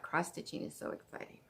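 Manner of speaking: a breathless whisper of delight; excited whisper. Real, not acted. Stitcher gushing to viewers about a free chart, whispering. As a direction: whisper it like it's too much joy. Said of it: "I'm just so excited".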